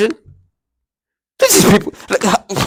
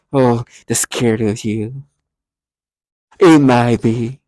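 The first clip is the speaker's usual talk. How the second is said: slow, drawn-out imitation of tormentors; gimmicky perp voice; 3 semitones lower, much slower than usual. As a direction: mimic their put-on tone, stretching each word. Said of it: "use this tone of voice".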